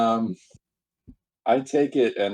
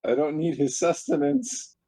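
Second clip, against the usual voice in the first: flustered protest; 6 semitones higher than usual. Real, not acted. Protests he doesn't want Wookiee.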